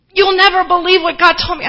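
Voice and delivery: loud, high-pitched gush of news; so excited. Retold or imitated. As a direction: imitate someone bursting to share a secret. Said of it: "She was so excited to tell me".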